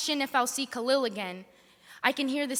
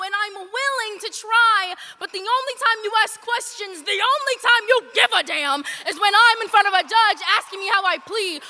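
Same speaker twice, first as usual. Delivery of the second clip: builds from level to loud, pitch climbing; pleading harder with every line until it breaks out; rising plea; 4 semitones higher, 4 dB louder than usual. Acted. To the one who never asked, a growing plea.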